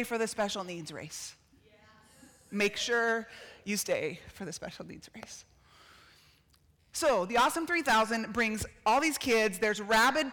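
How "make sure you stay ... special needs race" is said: softly whispered reminder; whispered aside to the congregation. Shown as a demonstration. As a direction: lean in and whisper it.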